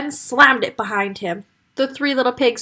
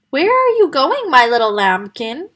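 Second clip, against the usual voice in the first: put-on old mother voice; 3 semitones higher, 4 dB louder than usual. Wolf's mother asking her son, doting. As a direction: coo at your grown son.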